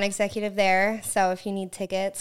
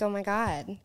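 put-on Valley girl gush, trailing softer; 4 dB quieter than usual. Shown as a demonstration. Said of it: "Explain to me a Valley girl voice".

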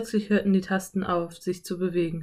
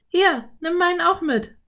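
put-on high, raised girl's call; 10 semitones higher, 5 dB louder than usual. A narrator's reading. Girl calls to her brother about her hat, high call. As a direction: call it out, pitched well up. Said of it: "rief Anne".

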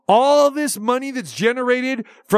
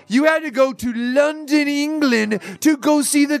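higher, emphatic guest-style rant; a hint of the guest's excited voice, pitched up; Paul Buck Power Stewart impression; 6 semitones higher than usual. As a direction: lightly mimic the guest's fired-up delivery. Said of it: "How's my Paul Buck Power Stewart voice".

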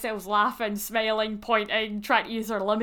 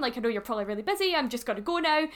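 acting out a flustered apology, rising at the end; 2 semitones higher, faster than usual. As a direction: excuse yourself to a star, mildly flustered. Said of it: "so flustered".

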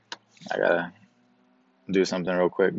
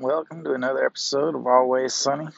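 put-on southern accent; 4 semitones higher than usual. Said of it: "I bust out my southern accent".

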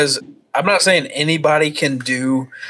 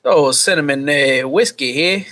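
lightly faked English accent; halting British accent attempt. Shown as a demonstration. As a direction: try an English accent, hesitantly. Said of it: "hit me with your best English accent".

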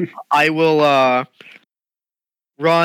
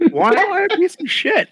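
put-on old man voice. Old man voice, high pitch.

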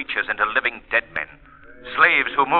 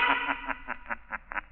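mocking laugh; 12 dB quieter than usual. The Shadow mocks the mistress.

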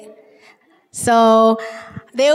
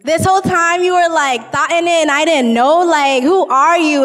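upset disbelief; 4 semitones higher, 4 dB louder than usual. Retold or imitated. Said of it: "he's just going crazy in his mind".

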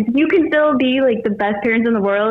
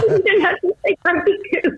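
imitating angry teen; 10 semitones higher than usual. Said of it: "she answers back so angry".

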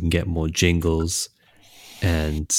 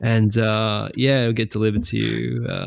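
Jimmy impression; 3 semitones higher, 3 dB louder than usual. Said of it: "Was that your Jimmy impression".

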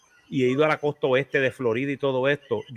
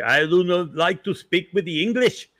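higher, louder put-on Amish voice; mock Amish voice; 5 semitones higher, 4 dB louder than usual. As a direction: lightly mimic a stiff Amish speaker. Imitating an Amish person.

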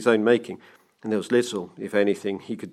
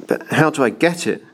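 higher, hesitant question; tentative; 5 semitones higher, 3 dB louder than usual. A narrator's reading. Banker hesitating, asking the clockmaker for help, tentative. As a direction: ask it as if unsure. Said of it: "he asked tentatively".

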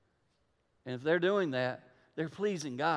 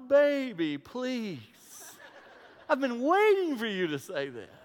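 mock eager wife; 6 semitones higher, slower than usual. Mock wife's eager reply.

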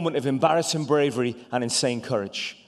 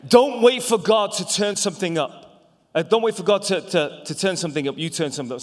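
quoting loudly; 4 semitones higher, 4 dB louder than usual. Retold or imitated. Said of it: "He said, uh".

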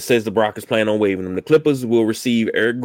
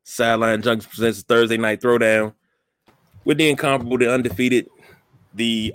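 booming showman announcer intro; ringmaster. Pretend. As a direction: hype it up like a circus ringmaster. Ringmaster style show intro.

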